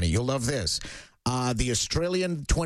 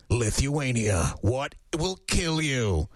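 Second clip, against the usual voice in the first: mock documentary narrator; much slower than usual. Mock documentary series title.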